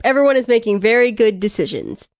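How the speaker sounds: dry mock approval; sarcastic. Real, not acted. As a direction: say it as if you believed it, knowing better. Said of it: "We are being very sarcastic".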